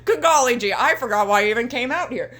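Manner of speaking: exaggerated folksy MJF impression; hokey MJF voice. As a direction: play him as a gee-whiz hick. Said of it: "that's how he sounds in my head".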